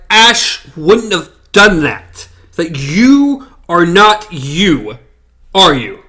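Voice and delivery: slow, mildly angry accusation; retold anger. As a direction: spell it out slowly, a touch of anger. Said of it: "angry again".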